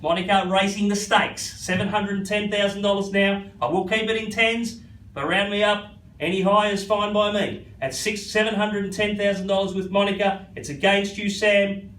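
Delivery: rhythmic auction bid calling; auctioneer calling. Real, not acted. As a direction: keep the bids rolling.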